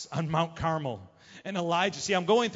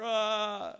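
higher, drawn-out mock cry; imitated wail; 4 semitones higher than usual. Prophets crying out at their altar, mock wailing.

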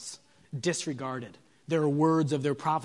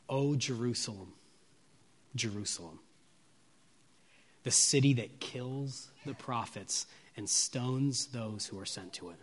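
agonized lament; 3 semitones lower, 4 dB quieter than usual. Retold or imitated. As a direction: let the grief sink in, trailing soft. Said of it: "hear the agony in his words".

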